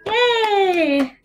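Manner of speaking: high cheering yay; high cheerful yay. Pretend. Cheering end of book.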